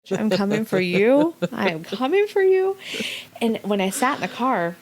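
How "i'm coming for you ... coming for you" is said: mock threat. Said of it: "on a mission to call my mother".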